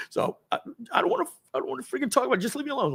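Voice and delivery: high, upset whine, retold; mock crying. Upset man brushing off coworkers, high mock-tearful voice. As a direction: act out being too worked up to talk. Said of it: "now I'm crying, like, literally".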